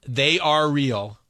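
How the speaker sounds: "they are real" dragged out word by word; slow and deliberate. Shown as a demonstration. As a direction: mouth "they are real" slowly and clearly. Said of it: "Do it again".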